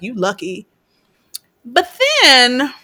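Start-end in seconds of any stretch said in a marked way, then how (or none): 0.0-0.7 muttered threat. Retold or imitated. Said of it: "he's like".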